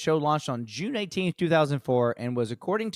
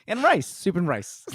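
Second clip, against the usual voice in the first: excited; 4 semitones higher, 3 dB louder than usual. Real, not acted. Excited joking pile-on.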